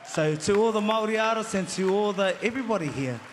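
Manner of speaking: short of breath; panting a little mid-speech. Real, not acted. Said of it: "sorry, I'm out of breath".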